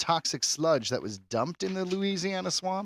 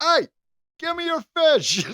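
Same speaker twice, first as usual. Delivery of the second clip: much higher, slow demanding creature voice; squeaky skunk ape; 5 dB louder than usual. Retold or imitated. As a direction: demand the fish in a silly high creature squeak. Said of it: "He's like".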